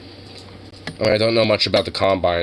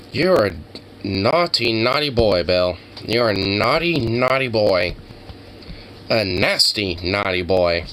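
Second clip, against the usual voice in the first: mock scolding; slower than usual. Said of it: "in the words of that one guy".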